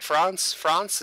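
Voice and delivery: "France" with a long ah, questioning; British-style France. Shown as a demonstration. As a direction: say "France" as "Frahnce", checking it. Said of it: "Did I say that right?".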